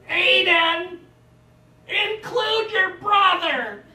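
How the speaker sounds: high, slow shouted parent call; loud parent calling a child at the park; parent yelling. Retold or imitated. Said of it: "parent with decibels".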